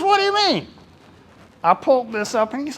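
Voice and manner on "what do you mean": puzzled question. Retold or imitated. Michael puzzled by colors label.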